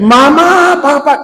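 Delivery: mock distressed child on the phone; imitating a crying caller. Extortionist on the phone faking a crying child's plea. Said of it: "Gritan, lloran".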